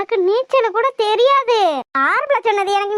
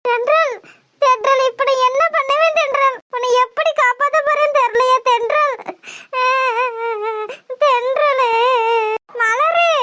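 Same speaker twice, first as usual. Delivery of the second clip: tearful, pleading calls to a friend; acted crying despair; distraught. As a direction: wail helplessly as your friend drifts away. Watching friend drift away, helpless.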